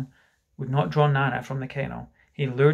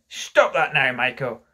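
firm, mildly raised command; demanding; 5 dB louder than usual. Acted. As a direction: order the child to stop. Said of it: "Mister Darling demanded".

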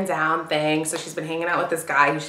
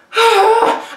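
high, loud sigh of distress; upset sigh; 6 dB louder than usual. Real, not acted. Recovering after telling about the fight, distressed sigh. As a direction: heave a big, high-pitched sigh.

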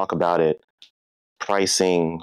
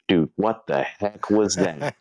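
laughing disbelief; 2 semitones higher, slower than usual. Retold or imitated. Uncle's amazed text, retold.

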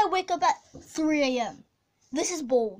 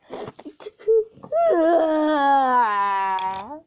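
crying laugh; 5 dB louder than usual. Acted. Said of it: "I'm crying".

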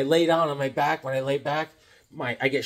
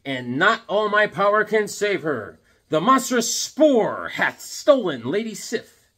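slow, solemn comic-book reading; a hint of Thor's grandeur; lightly dramatic hero voice; 4 semitones higher, slower than usual. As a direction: read it like a grave hero.

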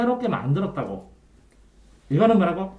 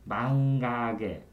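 망가게 drawn out syllable by syllable; slow mnemonic; 5 semitones lower, 3 dB quieter, much slower than usual. Shown as a demonstration. Tutor teaching a memory trick to the student, slow. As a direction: spell the mnemonic 망가게 out slowly so it sticks. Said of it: "이렇게 외우든지".

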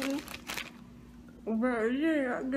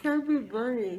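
cheeks stuffed full. Real, not acted. Marshmallows stuffed in mouth.

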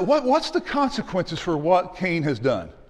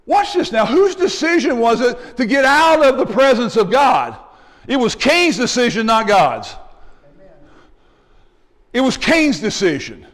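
emphatic preaching; 2 semitones higher, 3 dB louder than usual. Real, not acted. Preacher drives the point home.

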